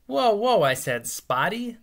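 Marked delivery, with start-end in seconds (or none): 0.1-0.6 sudden high, loud "whoa, whoa"; alarmed, higher and louder interruption; startled protest. Retold or imitated. Boy stunned the kid claims his dog. 1.1-1.8 "Spotty?" rising in disbelief, higher; incredulous question. Retold or imitated. Boy hears the dog called Spotty.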